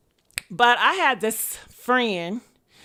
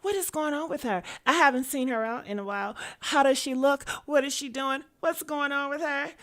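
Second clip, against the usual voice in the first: hushed, nosy gossip voice; gossipy whisper; 5 dB quieter than usual. Retold or imitated. Nosy girls whispering about her, softly. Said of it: "was whispering and were like".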